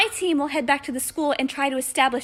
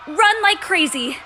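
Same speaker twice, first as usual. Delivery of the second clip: louder, called-out order to flee; urgent command; 3 semitones higher, 5 dB louder than usual. Acted. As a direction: call it out to the whole group. Leader orders group to flee.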